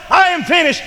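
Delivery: high and loud; preaching shout. Acted. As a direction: ring it out over the crowd. Shouting climax of sermon.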